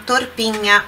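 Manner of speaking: Torpigna with GN said like Portuguese NH; Italian GN sound. Shown as a demonstration. Teacher pointing out the GN in Torpigna, clear. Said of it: "olha o som do G N A".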